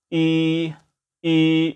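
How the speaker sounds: held "이" with lax, effortless lips; relaxed E. Shown as a demonstration. Teacher isolates the vowel, relaxed steady "이". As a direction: say "이" long and level, lips fully relaxed. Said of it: "relaxed and E 사운드죠".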